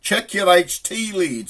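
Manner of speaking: high, slow, drawn-out call; mysterious voice. Retold or imitated. Voice from nowhere to stranded driver, slow high call. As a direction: intone it slowly from out of nowhere. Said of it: "here's this voice".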